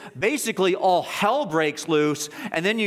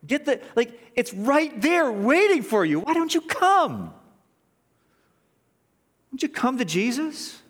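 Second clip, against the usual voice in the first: rising, pleading preacher's altar call; mock altar call. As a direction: coax the sinner down the aisle.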